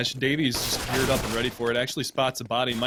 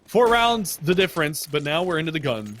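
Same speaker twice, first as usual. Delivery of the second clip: excited; 4 semitones higher, 4 dB louder than usual. Real, not acted. Hyped round count in play-by-play.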